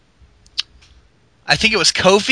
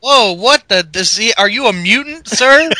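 mock amazement; 4 semitones higher than usual. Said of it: "You're like".

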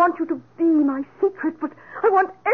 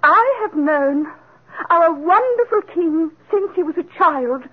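formal speech. Acted. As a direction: speak grandly to the king.

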